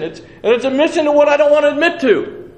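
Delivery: high, loud protesting cry; exasperated outburst. Retold or imitated. Preacher reliving his dread of admitting the call, exasperated outburst. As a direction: burst out at full voice, pitch way up.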